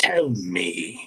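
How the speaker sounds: very low, dark, slow, deliberate voice. Voicing a thing that talks about itself, in a dark voice. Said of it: "the voice sounds darker to you".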